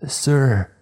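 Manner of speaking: high, loud call outside. Acted. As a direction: call out to him, urgent. Girl calls out at door.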